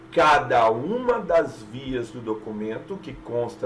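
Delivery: "uma" leaned on, slowed down; slow, hit "uma" as the subject; stress on uma. Shown as a demonstration. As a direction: make clear "uma" agrees with the verb. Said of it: "Neste caso aqui, o sujeito é uma".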